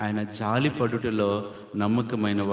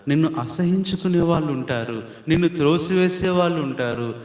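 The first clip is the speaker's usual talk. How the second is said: higher and louder, hammering each line; impassioned preaching; 5 semitones higher, 3 dB louder than usual. Real, not acted. Preacher warns of those who despise and push you away, loudly. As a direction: pound out the list with rising force.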